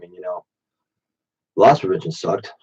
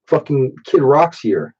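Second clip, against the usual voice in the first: higher, drawn-out mock alarm; imitated waitress alarm; 5 semitones higher, slower than usual. Waitress warning the cook about Kid Rock, mock alarm. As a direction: stretch it out like a rattled waitress.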